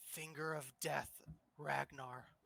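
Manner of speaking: slow half-whisper, close to the ear. Voicing an enemy casting a spell on Ragnar: half-whispering into someone's ear. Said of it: "he's just gonna whisper into your ear".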